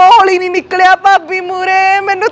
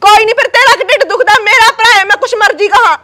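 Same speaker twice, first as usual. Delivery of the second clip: heated quarrel; 2 semitones higher than usual. Acted. Sister snaps at her sister-in-law for interrupting the call. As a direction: snap back at her, rushing the words.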